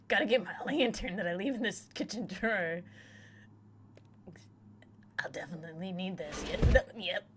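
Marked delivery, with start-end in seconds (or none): 0.1-2.8 livelier, swooping self-narration; amused, hammed-up announcement of an errand; playful repeat. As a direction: play it up for the audience. Livelier repeat after laughing.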